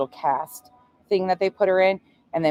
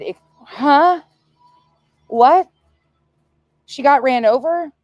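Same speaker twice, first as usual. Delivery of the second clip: high, loud, incredulous questions; can't believe what she hears; mother on the phone, high and alarmed; shocked disbelief; 8 semitones higher, 7 dB louder than usual. Retold or imitated. Mother repeating shocked reaction.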